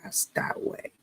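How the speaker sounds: high, slow, whispered order; steering the dog away while holding the granddaughter; commanding hiss. Retold or imitated. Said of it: "I was just in command".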